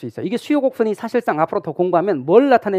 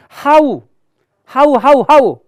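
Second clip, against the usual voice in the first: loud mock insistence; 우기는 흉내; 7 semitones higher, 9 dB louder, much slower than usual. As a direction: chant it louder and higher, like someone stubbornly insisting. Mimics questioner insisting on wrong term. (크고 높게 우기듯 반복)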